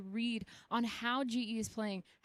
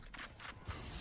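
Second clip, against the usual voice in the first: quiet evil chuckle; breathy villainous cackle; villain laugh; 13 dB quieter than usual. Real, not acted. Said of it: "You don't like my villain laugh?".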